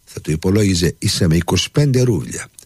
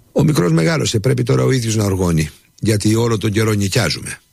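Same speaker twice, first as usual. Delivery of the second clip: much higher, resigned servant voice; humble servant; 7 semitones higher than usual. A narrator's reading. Nikita explains. (ψηλή, παραιτημένη φωνή υπηρέτη)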